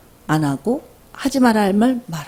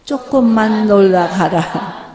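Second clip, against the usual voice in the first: gentle release; 3 dB louder, much slower than usual. Shown as a demonstration. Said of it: "시작".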